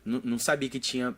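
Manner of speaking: ordinary talk, nothing marked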